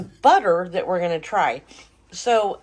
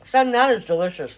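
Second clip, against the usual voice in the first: talking through a mouthful of biscuit; words round a bite of food; mouth full. Real, not acted. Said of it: "Sorry, my mouth is full".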